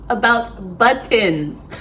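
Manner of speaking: "about buttons" slowed down, each syllable set apart; deliberate repeat. Real, not acted. Repeating the poem's topic for viewers, slow and deliberate on "buttons".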